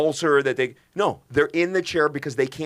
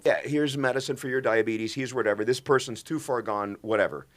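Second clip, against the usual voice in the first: a bored shrug of a voice, waving the patient away; dismissive doctor; 3 dB quieter than usual. Retold or imitated. Imitating careless caregivers blowing off sick patients, dismissive. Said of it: "It's almost like".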